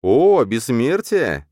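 high, slow, loud fake joy; feigned delight. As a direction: overplay the excitement sarcastically. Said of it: "наигранно отвечаю я". (наигранный восторг)

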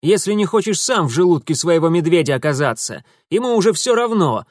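loud angry warning; threat. A narrator's reading. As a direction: threaten him with the bear. Urusov threatening captive.

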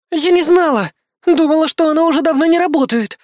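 put-on high, guilty girlish excuse. Bismarck guiltily excusing herself to the team, high-pitched. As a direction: plead your innocence, flustered. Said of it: "виновато ответила Бисмарк".

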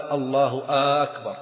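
slow takbir with أكبر said "aakbar"; lengthened questioning vowel. Shown as a demonstration. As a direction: stretch the first a of أكبر. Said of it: "أيضًا استفهامية".

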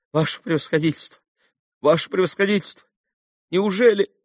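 high, fast desperate pleading; voiced as a desperate begging father; pleading captain. A narrator's reading. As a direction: beg the general in a rising panic. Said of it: "с последней мольбой".

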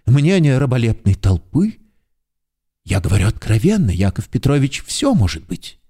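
ordinary delivery

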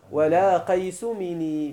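مني with one n, minī, drawn out; slow verse reading, single n in مني; lightened n. Shown as a demonstration. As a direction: say مني without doubling the nūn. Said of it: "مني بتخفيف النون".

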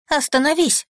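high desperate plea; frantic high begging. Acted. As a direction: beg him to stop, terrified. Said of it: "умоляю я".

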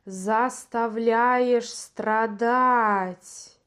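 very slow, dragged-out demon voice; slow demonic voice. Acted. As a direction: drawl it like a spirit. The possessing creature speaks.

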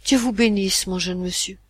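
a hint of a humble beggar; beggar's thanks. Old sailor thanking the boy for the tip, lightly humble. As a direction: thank him lightly like a pauper. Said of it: "avec l'accent d'un pauvre qui reçoit l'aumône".

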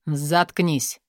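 plain reading voice

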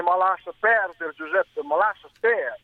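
slow, drawn-out Modena dialect; Modenese dialect. Real, not acted. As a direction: say it slowly in Modenese, as weary advice. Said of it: "te lo dico in dialetto modenese". (in dialetto modenese, lentamente)

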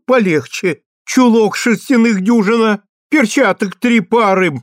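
put-on high, loud fussing old woman; eager old woman voice. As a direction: reel off the gifts like a fussing granny. Old woman lists gifts eagerly.

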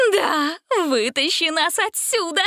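excited witch. A narrator's reading. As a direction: plead to be pulled out. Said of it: "воодушевилась Велина".

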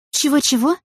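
high, playing-dumb question; feigned innocence. A narrator's reading. Цветкова изображает невинность перед Олесей Дмитриевной. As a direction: act innocent, blink at her. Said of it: "невинно захлопала глазами".

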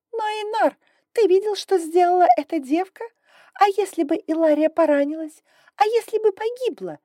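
high, loud, outraged mother; indignant exclaim. A narrator's reading. Sister crying out to her brother, high and indignant. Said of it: "воскликнула драконица".

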